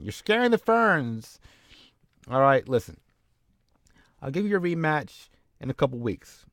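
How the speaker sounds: high, placating mock-boss voice; nervous Bischoff. Bischoff calming angry Brian Adams, high and nervous. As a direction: soothe him in a high nervous voice. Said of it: "Bischoff's like".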